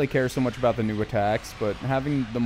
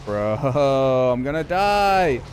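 panicking gamer; 6 dB louder, much slower than usual. Real, not acted. Losing the fight in game.

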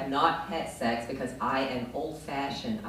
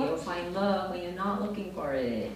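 a higher, breezy life-coach voice; mock life coach; 4 semitones higher than usual. Life coach soothing her about dating, lightly mocked. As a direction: lightly imitate a chirpy advisor. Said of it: "She's always giving me dating advice".

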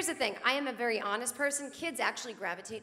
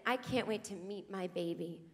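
dreamy mom-to-be; 3 semitones lower, 5 dB quieter than usual. Retold or imitated. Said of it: "she said to me".

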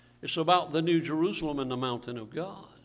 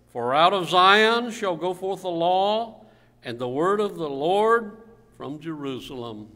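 scripture reading aloud; 5 dB louder than usual. Real, not acted. Reads scripture to congregation.

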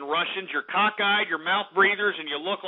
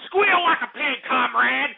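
higher, mocking voice of a cruel tormentor; mock communist tormentor; 5 semitones higher than usual. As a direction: sneer out the order like a hick villain. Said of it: "some communist system to get in back of you and tell you".

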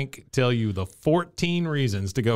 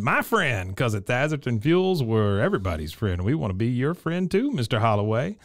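Thatherton. Retold or imitated. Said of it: "here comes Thatherton".

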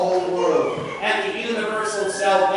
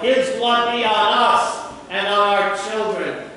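a touch louder, calling it out like the crowd; retold crowd cry; 3 semitones higher, 4 dB louder than usual. Preacher retelling the crowd crying out to Pilate, mildly raised voice. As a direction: voice the crowd's cry with moderate force, not a full yell. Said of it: "the people all cried out".

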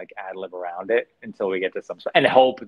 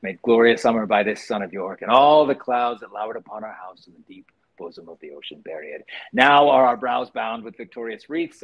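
bold stage recitation, louder; Richard the Third opening; 4 dB louder than usual. Shown as a demonstration. Actor reciting the Richard the Third opening for the chat, declaimed. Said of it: "I always wanted to do, Richard the Third".

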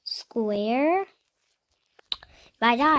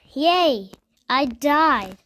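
mock cheer; 3 semitones higher, 7 dB louder, much slower than usual. Real, not acted. Celebrating dying in game.

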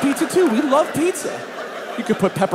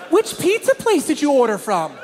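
lightly voiced wife, higher; nagging wife; 6 semitones higher than usual. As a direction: needle with a loaded question. Wife's loaded questions, voiced.

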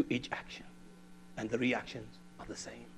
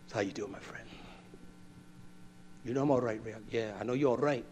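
caring check-in. Acted. Acted caring check-in with a friend.

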